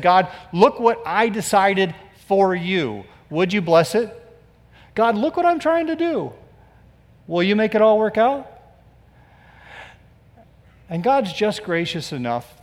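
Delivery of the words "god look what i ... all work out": mock hopeful prayer. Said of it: "made a decision and said".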